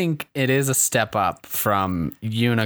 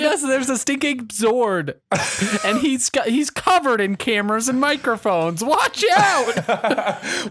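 excited hype; 8 semitones higher than usual. Pretend. Hyping the Stink Ape Zord.

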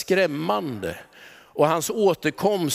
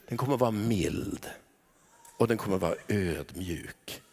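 tender hush; 9 semitones lower, 8 dB quieter than usual. Real, not acted. Describing God's coming reign.

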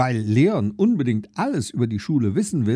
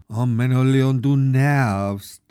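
slow, louder exasperated groan at little brother; 4 dB louder, slower than usual. Acted. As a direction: drag it out, fed up with his questions. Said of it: "stöhnt Lilly".

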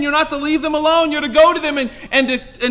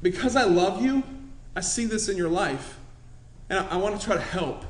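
softer, tender pleading; soft loving "let me help you"; gentle plea; 4 semitones lower, 8 dB quieter than usual. Retold or imitated. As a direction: reach out gently to a struggling brother. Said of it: "I go to them and say".

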